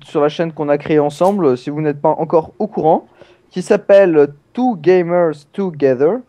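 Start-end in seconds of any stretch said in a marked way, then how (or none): 4.5-6.2 slow, self-mocking English accent on Two Gamers Together; a hint of a French-tinged English accent. Shown as a demonstration. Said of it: "avec mon magnifique accent anglais".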